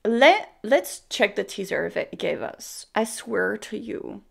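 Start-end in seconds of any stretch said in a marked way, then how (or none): 2.9-4.2 soft muttered swear; quiet mutter. Real, not acted. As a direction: say it to yourself in disbelief. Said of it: "repeated swear to you".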